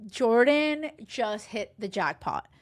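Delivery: slow, emphatic "Jordan just hit the jackpot"; delighted aside. Retold or imitated. Admiring Amber, slow emphatic delight. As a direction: savour it like a win. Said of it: "I look at Amber and I'm like".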